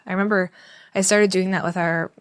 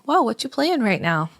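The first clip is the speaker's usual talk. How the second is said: interested parent; 4 semitones higher than usual. Shown as a demonstration. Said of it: "and say".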